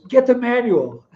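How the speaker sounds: high-pitched mock yell of a hurt child; hammed-up kid's wail, pitched high; retold yelling. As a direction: imitate a little boy yelling in pain. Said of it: "he started yelling".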